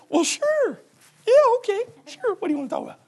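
high, wary agreeing voice; Donna. Retold or imitated. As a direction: play the reluctant churchgoer. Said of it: "Sound like Donna, don't I?".

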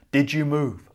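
loud, suspicious wolf voice. Acted. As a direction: growl the question like a wolf. Wolf questions the girl.

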